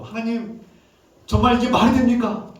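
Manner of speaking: imitated protest, high and insistent; angry at God. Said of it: "하나님께 막 화를 내는 거죠". (하나님께 화내며 따지는 시인 흉내)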